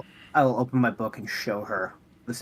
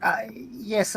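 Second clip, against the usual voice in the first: whisper; 9 semitones higher than usual. Acted. Whispered reply in character.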